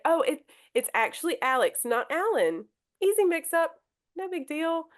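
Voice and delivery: breezy and kind, making light of it; light easy correction. Shown as a demonstration. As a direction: shrug off the mix-up kindly. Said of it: "make light of it".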